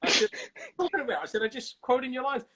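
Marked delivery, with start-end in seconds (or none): 0.8-1.2 loud, high comic indignation; exasperated mock squawk; high-pitched protest. Acted argument with Schwarzenegger. 1.4-2.4 loud, high comic self-defence; exasperated mock squawk; high-pitched protest. Acted argument with Schwarzenegger.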